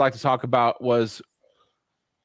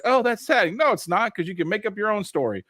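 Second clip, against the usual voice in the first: quoted reply; 5 semitones higher than usual. Retold or imitated. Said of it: "She's like".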